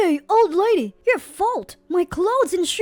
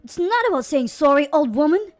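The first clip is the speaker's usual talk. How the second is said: loud angry shout with a harsh edge; 4 semitones higher, 7 dB louder than usual. Acted. Boss rejecting the old cleaner's apology, loud angry shout. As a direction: cut her apology off with a yell. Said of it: "While shouting".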